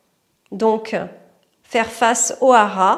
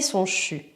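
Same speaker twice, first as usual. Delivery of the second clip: soft unvoiced chu breath; whispered chu exhale; 4 semitones lower, 7 dB quieter than usual. Shown as a demonstration. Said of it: "Expire couleur fumée".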